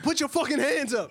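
high, hammed-up demand; mock angry father. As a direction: snap the order at the son.

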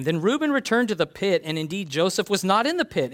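a lifted, earnest Bible reading; scripture reading. Acted. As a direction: read the passage to the congregation. Reads scripture aloud.

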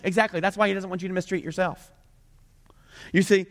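ordinary talk

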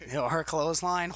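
ordinary talk

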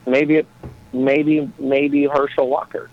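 a light put-on Minnesota accent; easygoing Minnesota accent. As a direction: chat like a folksy Minnesotan. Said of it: "I love that accent".

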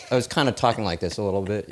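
talking oddly to keep a wet lip out; weird mouth. Shown as a demonstration. Waiter with dirty water on his lip, talking weird. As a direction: demonstrate a slightly weird way of talking. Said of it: "kinda was talking in this kind of weird".

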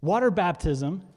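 fired-up preacher, slow and emphatic. Real, not acted. Preacher announcing water baptism to the congregation, fired up. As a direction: proclaim it with real fervour, drawn out. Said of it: "Sorry, I'm fired up today".

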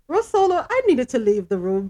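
high loud call of a name. Real, not acted. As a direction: call across the room. Calling out to co-host.

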